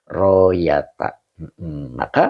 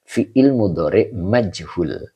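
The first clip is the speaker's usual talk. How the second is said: slow, clear reading; slower than usual. Shown as a demonstration. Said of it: "Ini dibaca yuqalu".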